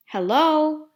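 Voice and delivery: friendly. Acted. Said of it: "said a friendly scientist".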